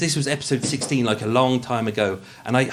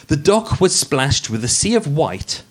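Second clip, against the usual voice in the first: posh podcast voice. Acted. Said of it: "the podcast voice".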